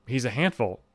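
understated puzzled repeat to oneself; skeptical inner thought. Retold or imitated. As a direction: quietly question what you just heard. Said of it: "And I remember thinking".

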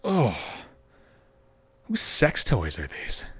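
ibu bertanya pelan dan rendah; a hint of a puzzled mother, slow and low; low slow mom. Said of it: "I hear the mother say".

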